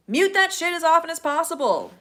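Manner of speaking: emphatic loud punchline. Real, not acted. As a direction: slam the last advice out. Punchline of advice.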